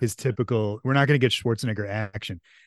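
plain

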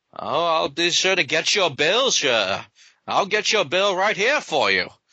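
put-on old-timey receptionist voice, old-fashioned way of talking. A receptionist speaks to a wanted man at the hospital, in an old-timey voice. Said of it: "he kind of talks old-timey".

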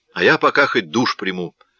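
plain reading voice

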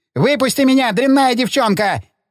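high, full-throated yell at the top of the lungs. Narrator reads his outburst at Ellie after she refuses, yelling at top of lungs. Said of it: "Заорал он во всю глотку".

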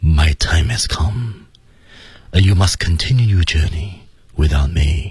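calm, steady, clear, gentle wise-person tone. English example of how a very wise person speaks: even, gentle and clear. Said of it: "所以他的语气就非常平缓，".

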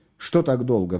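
ordinary delivery, nothing marked

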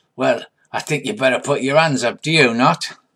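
menacing sneer. Voicing an armed figure who tells the players to raise their hands: sneering.

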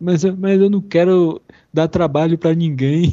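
mock crying while laughing. Retelling how she talked back then, as her girlfriend reported: mock crying while laughing. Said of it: "chorando e rindo".

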